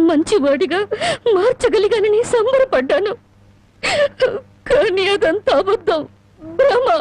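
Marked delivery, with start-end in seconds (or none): 4.7-6.9 crying. Acted. Wife breaks down, deceived.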